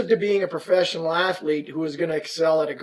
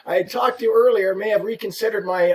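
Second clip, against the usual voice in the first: laughing as he talks; 6 semitones higher, 4 dB louder than usual. Real, not acted. Rep joking about the late call, laughing. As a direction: get the words out through laughter.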